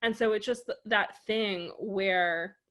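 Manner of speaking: usual speaking voice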